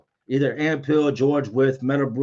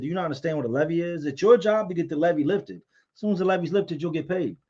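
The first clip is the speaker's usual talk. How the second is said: fast, higher exasperated explaining; exasperated lecture; 5 semitones higher than usual. Retold or imitated. Telling the accountant it's his job to lift the levy, fast exasperated lecture. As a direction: rattle it off like talking sense into a fool.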